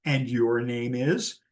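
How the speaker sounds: slow, drawn-out prompting question with a rise; retold teasing prompt, said slowly; slow pointed prompt. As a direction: stretch it out so they must fill in the name. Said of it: "she would say".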